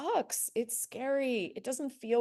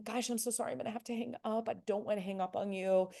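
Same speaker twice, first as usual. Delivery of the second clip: soft apology; 2 semitones higher, faster than usual. Shown as a demonstration. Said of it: "with a really soft voice".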